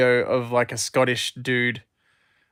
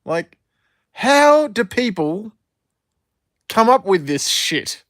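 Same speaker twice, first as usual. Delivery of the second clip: higher mock dad voice, baffled; imitating dad; 6 semitones higher, 4 dB louder than usual. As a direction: do your dad, puzzled and fed up. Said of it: "And he's like".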